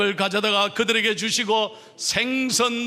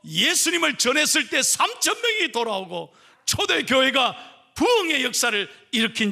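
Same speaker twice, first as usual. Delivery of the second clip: preaching at full force; 5 semitones higher than usual. Acted. Pastor proclaiming the church's revival, full-force preaching. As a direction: shout the triumph of the early church.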